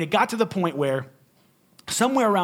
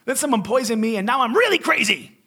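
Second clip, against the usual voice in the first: exasperated rant. Retold or imitated. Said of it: "I'm like".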